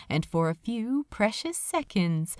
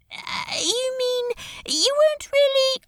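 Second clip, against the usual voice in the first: surprised; 3 dB louder than usual. A narrator's reading. Crowley stunned by revelation.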